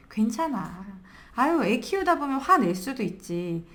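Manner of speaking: mild, comforting reassurance; gently reassuring. Acted. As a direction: soothe a worn-out parent. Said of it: "이런 얘기를 들으면 마음 편안해지죠".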